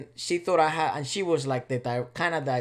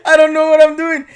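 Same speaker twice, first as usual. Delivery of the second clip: laughing hard; 13 semitones higher, 16 dB louder than usual. Real, not acted. Recalling panic, laughing.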